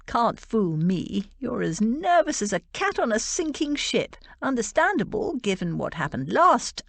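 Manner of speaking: teasing best man. Acted. Sink teases nervous Hart.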